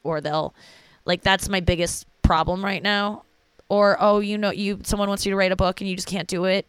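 lightly mocking, self-pitying inner voice; mocking own feelings. Mocking herself to viewers, lightly sarcastic. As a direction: sneer gently at your own worries. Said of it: "mock those feelings like I just did".

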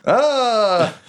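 high, sustained mock victory cry; high "aah" held out; drawn-out "ah". Woman lifts weeping fighter's arm.

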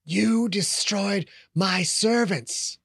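slow, hissing hatred; hateful whisper. Acted. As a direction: spit each word out in slow hate. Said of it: "its words whispers of hate".

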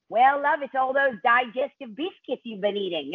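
put-on a loose, half-done New Zealand accent; bad New Zealand accent. Wardrobe designer explains the biscuits, in a poor New Zealand accent. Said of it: "that's a terrible New Zealand accent".

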